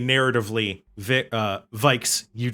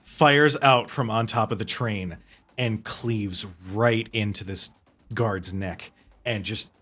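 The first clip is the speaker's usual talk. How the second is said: slow, savoured action storytelling; dramatic game master narration; slower than usual. Acted. Game master describes a lightning bolt killing a guard, slow dramatic narration. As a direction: draw out each gory beat of the kill.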